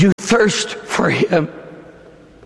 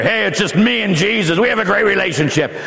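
mocking imitation; faster than usual. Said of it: "modern Catholics that you don't need Mary".

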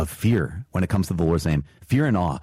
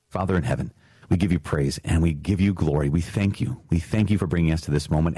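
prayer. Acted. Closing prayer over the commandment.

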